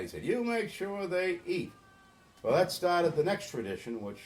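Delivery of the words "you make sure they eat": higher and slow, a firm order; a hint of a stern dad laying down the law; firm father. Upset father tells son to feed the kids, slow and firm.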